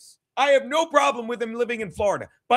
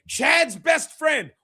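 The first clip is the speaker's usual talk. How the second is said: mocking shout; 4 semitones higher, much slower than usual. Real, not acted. Mocking rival while showing clip.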